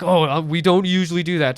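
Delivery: a touch of a snarky waiter, lightly voiced; snarky attitude. The narrator mocking Dan the waiter, a touch snarky. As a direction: mimic the waiter's put-upon reluctance, lightly. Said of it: "snarky attitude".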